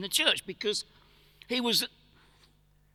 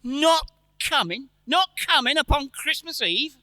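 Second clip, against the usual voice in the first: dismayed surprise; 6 semitones higher, 3 dB louder than usual. Acted. Father dismayed daughter absent.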